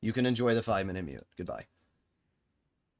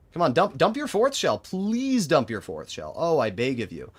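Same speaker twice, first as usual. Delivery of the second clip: higher, louder begging; urgent pleading; 5 semitones higher, 4 dB louder than usual. Real, not acted. Streamer begging the enemy to waste a shell, pleading. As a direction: plead loudly, stretching the "please". I beg of you.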